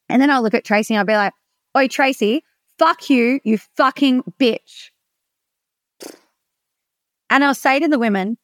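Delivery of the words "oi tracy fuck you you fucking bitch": slow, hard, menacing delivery; aggressive insult. Shown as a demonstration. Coach shows the group the same words said violently, menacing. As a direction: spit it at her like you mean harm. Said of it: "the other one felt violent and aggressive".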